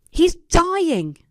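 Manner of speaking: high, tearful and breaking; sobbing mother. A narrator's reading. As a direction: sob the words into the phone. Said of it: "Mom sobbed into the phone".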